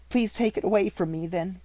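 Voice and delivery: put-on a grieving girl holding her ground; steady young Sarah. A narrator's reading. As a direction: refuse calmly and proudly. Sarah's proud reply.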